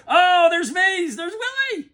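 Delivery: high squeal, slowed and laughing; fired up. Real, not acted. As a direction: gush over Willie in disbelief. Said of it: "I'm pretty fired up".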